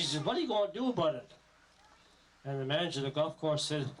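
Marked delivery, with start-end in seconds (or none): 0.2-1.3 higher, fast, mock-indignant challenge; hammed-up angry golfer lady; retold storming demand. Golf joke, lady storms into manager's office, mock indignant. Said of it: "she was storming".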